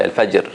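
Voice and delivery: al-fajr with a soft, thin final r; wrong soft ra. Shown as a demonstration. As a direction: end al-fajr on a light r, the mistaken way. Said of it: "We don't say".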